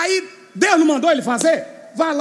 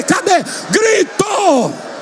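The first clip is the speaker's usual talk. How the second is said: shout; 6 semitones higher, much slower than usual. Real, not acted. Preacher demanding the church's shout, yelling. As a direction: rouse the church with a yell.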